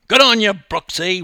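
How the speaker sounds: loud, high cheer; fan yelling. A narrator's reading. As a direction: yell encouragement like a fan in a crowd. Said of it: "one fan yelled".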